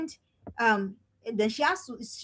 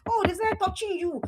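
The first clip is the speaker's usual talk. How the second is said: a hint of a sneering mother, raised pitch; lightly voiced taunting mom; mocking mean mother; 6 semitones higher than usual. Mean mother taunting her daughter, lightly sneering. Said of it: "You say things like".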